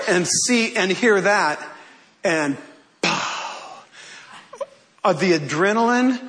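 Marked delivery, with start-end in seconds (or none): 3.0-3.8 soft, airy "pow" sound effect; imitated impact noise. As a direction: puff out a whooshy pow for a sudden jolt. Imitates adrenaline hit while telling.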